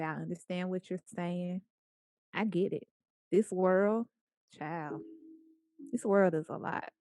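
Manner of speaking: reassuring. Shown as a demonstration. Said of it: "acknowledge it and say".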